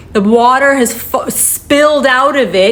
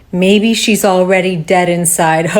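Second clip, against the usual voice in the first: joking; 2 semitones lower than usual. Retold or imitated. Officer joking outside the door, imitated wryly. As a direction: replay his joke, spelling it out. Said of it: "he made a joke".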